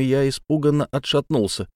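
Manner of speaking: usual speaking voice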